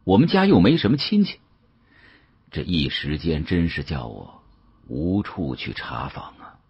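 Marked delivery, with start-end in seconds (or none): none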